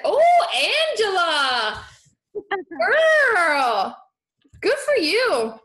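delighted laugh and shout. Real, not acted. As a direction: burst out laughing with joy, then shout your praise. Viewer quitting job tomorrow.

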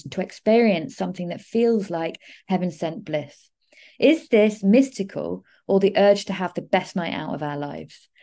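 reading own horoscope notes aloud; measured, emphatic written-piece delivery. Real, not acted. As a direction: read it out like a prepared astrology forecast.

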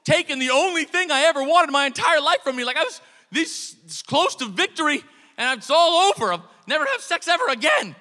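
high, loud anguished wail; hammed-up tragic screaming; mock screaming. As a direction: scream out your loss dramatically. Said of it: "I go back to screaming".

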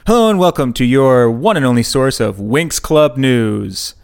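slow, loud news-anchor intro; announcer voice. Pretend. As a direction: open it like a TV news host. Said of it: "Did you like that rebrand attempt?".

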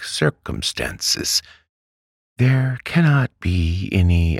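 high-pitched, careful reassurance; mild little man, politely hedging; meek, mild doctor. A narrator's reading. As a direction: reassure her timidly in a high voice.

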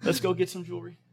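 put-on captain humoring the old lady, laughing. Loud laughing reassurance. Laughing while quoting himself.

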